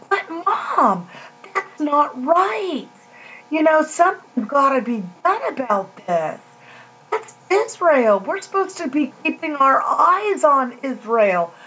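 replaying her own alarm, voice lifted; agitated plea. Retelling her alarmed plea to mom.

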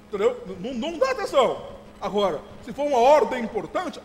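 ordinary delivery

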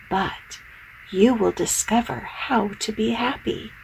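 whispered, mysterious advice; hushed wise octopus. Acted. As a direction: breathe it like a secret. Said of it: "with a deep voice".

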